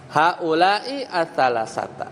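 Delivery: slow, careful reading of "Haula'i as-salasata" with both words fully voiced; correct reading. Shown as a demonstration. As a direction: read it out slowly as the model answer. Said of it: "Nah, itu keliru. Harusnya". (bacaan pelan dan jelas "Haula'i as-salasata")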